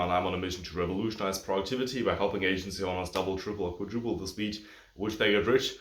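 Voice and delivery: slightly out of breath, quick. Real, not acted. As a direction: talk while catching breath. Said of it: "I'm sorry for being, like, a bit out of breath".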